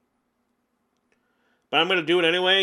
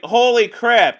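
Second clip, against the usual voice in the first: mock shocked outburst; 6 semitones higher, 8 dB louder, slower than usual. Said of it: "I'm like".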